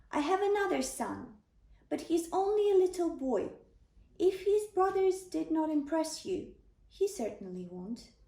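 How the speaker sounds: put-on a father half-apologizing for his little boy; eager father Jesse.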